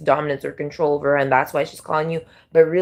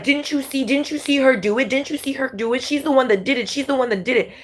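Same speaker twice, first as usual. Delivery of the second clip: a high, whiny "She's the one that did it"; mock accusing whine; 8 semitones higher than usual. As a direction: point the finger in a fake, pleading voice. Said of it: "And then be like".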